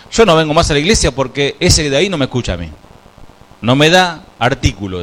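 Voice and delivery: complaining churchgoer. Retold or imitated. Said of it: "un personaje en la iglesia que decía".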